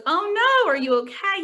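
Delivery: high startled "Oh no", then concerned; mock alarm, pitch jumping up on "Oh no"; worried tutor. Tutor reacting to the student's car accident, alarmed. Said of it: "And the tutor goes".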